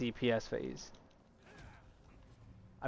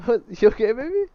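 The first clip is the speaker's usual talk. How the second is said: teasing falsetto; 9 semitones higher, 7 dB louder than usual. Acted. High teasing voice.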